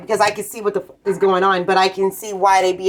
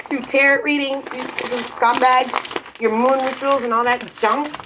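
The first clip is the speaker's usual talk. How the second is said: higher, dragged-out sneering voice; mocking impression; 4 semitones higher than usual. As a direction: ridicule them, stretching each word. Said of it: "and like".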